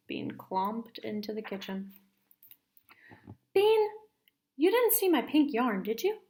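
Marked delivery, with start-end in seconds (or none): 3.5-6.2 high, loud suspicious call. Acted. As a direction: call out to little sister, suspicious. Suspicious sister calling out.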